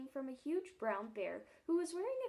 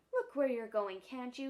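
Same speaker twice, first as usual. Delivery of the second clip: louder irritated shout; 6 dB louder than usual. Acted. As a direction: snap at whoever bumped you. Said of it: "he shouted".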